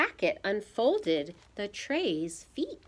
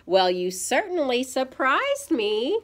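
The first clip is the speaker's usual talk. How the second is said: higher, lively amused mother; lightly amused, lifted pitch; 6 semitones higher, 5 dB louder than usual. A narrator's reading. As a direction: say it brightly, tickled by the mess. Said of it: "she said, laughing".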